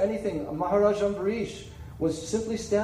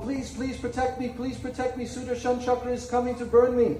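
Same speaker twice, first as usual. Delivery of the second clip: frightened pleading; 2 semitones higher than usual. Acted. Rishi begging Lord Brahma to save him, frightened plea. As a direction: beg for your life, breathless with fear.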